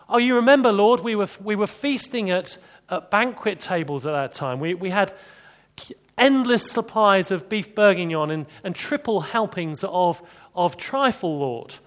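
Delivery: high, loud whining mock of the Israelites; mocking the grumblers. Preacher mocking Israelites' grumbling, high whiny voice. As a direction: ham up their greedy nostalgic complaint. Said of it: "what they're saying at the moment".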